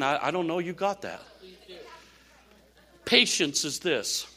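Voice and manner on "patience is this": slower, weighty repeat; emphatic restatement. Shown as a demonstration. Pastor restating patience so the church gets it, slow. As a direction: land the point deliberately. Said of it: "Let me say it again".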